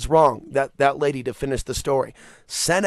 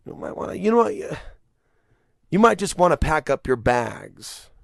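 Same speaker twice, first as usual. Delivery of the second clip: put-on Italian mobster accent. Italian mobster telling a rival to leave town, Italian accent. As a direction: threaten smoothly like a Casino mobster in Italian accent. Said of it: "Italian accent".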